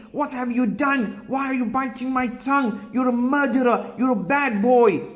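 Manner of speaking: storyteller's high mock scream, accusing; screaming mother. A narrator's reading. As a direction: scream it as the bitten, horrified mother. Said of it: "his mommy started screaming".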